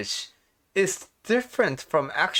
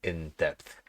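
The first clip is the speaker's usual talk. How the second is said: speaking around new retainers; slightly lisped retainer speech; wearing a retainer; 5 semitones lower than usual. Real, not acted. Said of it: "so my pronunciation may be a little bit off".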